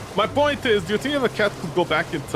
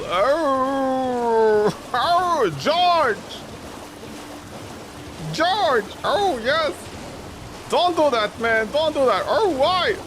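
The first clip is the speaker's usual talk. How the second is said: excited wolf voice; 8 semitones higher, much slower than usual. Pretend. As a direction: squeal like an overexcited wolf pup. Voicing a wolf's excited yelps.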